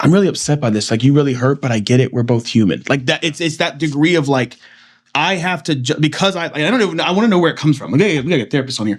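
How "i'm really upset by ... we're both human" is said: mock calm, reasoned, intellectualizing tone. Imitating how he voiced his hurt, calm intellectualizing tone. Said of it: "that's not how he said it".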